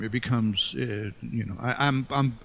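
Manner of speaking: stumbling restarts while searching for words; halting, with fillers and repeated starts; hesitant stuttering. Real, not acted. Author trying to avoid theological phrases, hesitant stuttering. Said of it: "I'm stuttering 'cause I'm trying to avoid".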